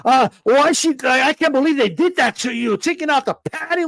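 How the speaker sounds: lightly mocked gushing fan; fawning simps. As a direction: imitate devoted fans outraged on her behalf. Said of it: "all these simps just taking her word".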